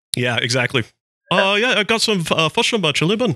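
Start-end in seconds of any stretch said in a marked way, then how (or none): 1.3-3.3 put-on kiwi accent, much higher. Told they gotta sound like Korg, speaker repeats the line; Korg voice. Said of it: "Gotta sound like Korg".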